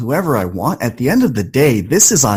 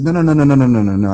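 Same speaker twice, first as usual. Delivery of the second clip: firm refusal; faster than usual. Retold or imitated. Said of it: "I said".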